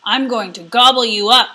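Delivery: troll eyeing a juicy goat; greedy troll. Acted. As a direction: savour the threat like a troll.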